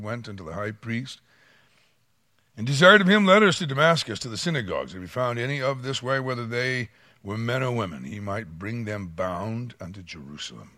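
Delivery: solemn Bible reading, rising on each clause; scripture reading. Acted. Pastor reading Acts to the church, solemn reading voice. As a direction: read the passage out to the congregation.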